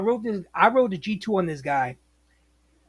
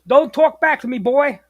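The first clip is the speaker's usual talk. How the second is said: higher, louder mock reprimand; yelling dispatcher; 4 semitones higher, 5 dB louder than usual. Dispatcher rebuking a driver for answering back, mock yelling. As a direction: imitate a boss putting a driver in his place. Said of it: "he's yelling and, you know, bitching".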